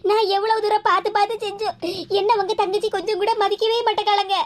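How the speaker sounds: acted crying while protesting; tearful complaint. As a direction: sob through a hurt grievance. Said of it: "நீ எதுக்கு லட்சுமி அழுதுகிட்டு இருக்க".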